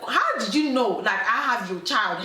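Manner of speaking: mock startled protest; playfully indignant disbelief; retold shock. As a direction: act out a woman caught off guard. Woman confronted by ex, acted.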